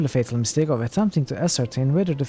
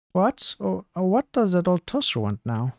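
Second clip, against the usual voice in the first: put-on drunk man; 3 semitones higher than usual. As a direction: play the drunk squinting at a stranger, pitched way up. Drunk fellow grumbling.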